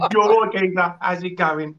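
British. Shown as a demonstration. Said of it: "I'm talking British again".

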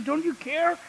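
high, loud, frantic cry over the storm; panicked yell. Retold or imitated. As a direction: shout it at Jesus as if drowning. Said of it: "I was yelling at Jesus".

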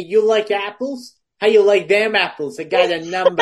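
mock Boston accent. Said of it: "That, that accent".

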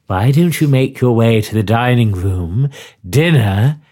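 slow, low, gracious hostess voice; a hint of a sly hotel hostess; lightly voiced hostess. S0 voices hostess Madame Revenant.

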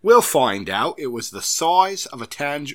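put-on botched English accent drifting toward Australian; English accent slipping Australian. Host testing his accent for co-host, English slipping into Australian. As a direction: attempt English, slide into Australian. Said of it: "that's when you go to Australian".

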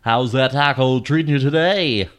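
a hint of chirpy radio host. Host chatting up listeners about fast food, in a light radio voice. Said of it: "That's, like, the perfect voice for that".

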